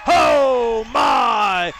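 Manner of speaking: rising to a shouted home run call. Real, not acted. Radio announcer calling a home run, excited shouting. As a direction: build up, then shout it gone.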